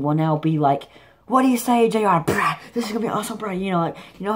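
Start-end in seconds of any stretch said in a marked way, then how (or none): 1.3-3.5 imitating Xavier. Host imitating the new host Xavier, excited and higher. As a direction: pitch it up like an excited young host, then rattle off the end fast. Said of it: "however he says it".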